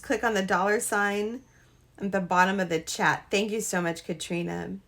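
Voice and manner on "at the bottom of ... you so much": ordinary talk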